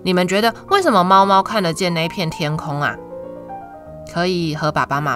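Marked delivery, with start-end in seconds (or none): none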